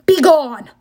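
loud, booming dismissal; bellowed command. Acted. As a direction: bellow them away. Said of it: "Ares belled".

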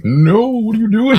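hammed-up indignant hero yelling at his friend; outraged Captain America. Cap scolding Bucky.

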